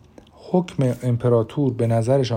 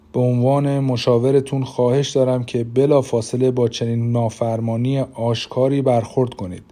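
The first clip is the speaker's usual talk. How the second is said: lightly smooth, silky persuasion; a hint of honeyed counsel, coaxing; velvety minister. Minister urges the emperor to punish, lightly silky. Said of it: "با صدایی مخملین گفت".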